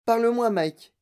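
loud, high-pitched appeal; high, urgent maternal plea; pleading cry. Acted. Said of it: "cria madame T V".

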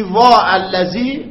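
slow وا stretched long; drawn-out lament. Shown as a demonstration. Teacher showing the wrong lament form, drawn out. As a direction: draw out the wrong lament slowly. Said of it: "ولی اگه بگی".

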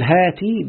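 هاتي with an i vowel after the t; kasra on the ta. Shown as a demonstration. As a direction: say هاتي as "haa-tii". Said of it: "بكسر التاء".

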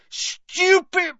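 high, cut-off attacking cry; yelled spell. A narrator's reading. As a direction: shout the incantation as an attack. Harry firing a spell mid-duel.

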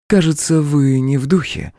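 высоко, с лёгкой насмешкой; улыбнуться господину в лицо; улыбаясь, демоница. A narrator's reading. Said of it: "улыбнулась". (насмешливо, с улыбкой)

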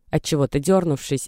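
ordinary delivery, nothing marked

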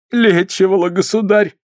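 meek, timid answer; a hint of a cowering old woman; lightly voiced frightened healer. Healer answering the boyar, lightly timid.

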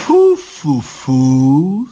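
drawn-out sniffing disgust; monstrous daughter. Acted. Baba Yaga's daughter smells a Russian, disgusted. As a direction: puff each syllable slowly. Усатая дочка Яги принюхивается.

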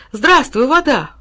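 high, loud happy hello; delighted, with a smile; smiling greeting. A narrator's reading. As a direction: greet it like an old friend. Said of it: "улыбнулся он".

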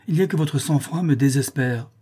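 lightly acted exasperation; exasperated reproach. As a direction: reproach a lover for being too calm. Countess reproaches her calm lover.

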